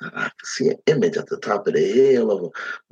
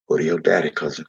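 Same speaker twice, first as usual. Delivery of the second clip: low and gentle, holding back tears; Big Earl gently urging through tears; calm, tearful; 4 semitones lower, faster than usual. Acted. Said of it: "said to me calmly, with tears in his eyes".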